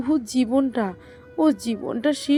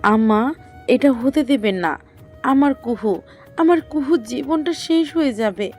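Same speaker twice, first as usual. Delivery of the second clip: loud, desperate plea to a mother-in-law; anguished, raised-voice appeal; distraught mother pleading; 6 dB louder than usual. Acted. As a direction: cry out, begging her to stop it. Mother pleads in tears for daughter.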